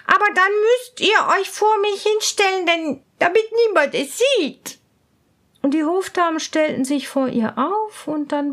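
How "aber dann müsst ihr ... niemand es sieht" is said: higher commanding princess. Acted. Princess tells her ladies to shield her, high and bossy. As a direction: order the ladies into place. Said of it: "sagte die Prinzessin".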